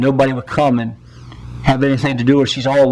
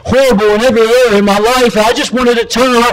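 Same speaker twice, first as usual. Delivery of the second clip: pleading confession; 6 semitones higher than usual. Acted. Repentant father pours out.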